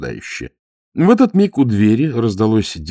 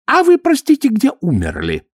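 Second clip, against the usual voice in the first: high, louder prim poet voice; mock poet's question; 4 dB louder than usual. Ametistov mimicking poet Mariengof, prim mock question. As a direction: ask it like a dainty salon poet. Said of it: "спрашивает у другого поэта".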